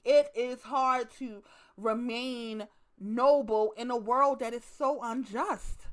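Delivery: slow, lofty preaching tone; mock solemn. Comedian mock-preaching about staying noble, slow and lofty. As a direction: stretch it out like a sermon.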